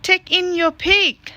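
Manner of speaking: put-on wise old man. Wise old man's line.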